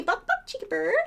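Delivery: high squeaky line for the bird to copy; bird-teaching voice. Shown as a demonstration. Teaching her cockatiel a phrase in a squeaky high voice. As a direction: say it like a parrot would.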